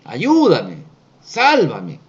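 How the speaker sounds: restrained imitation of a blind man's shout; crying out. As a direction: call out for help, not at full volume. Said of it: "él comienza a gritar".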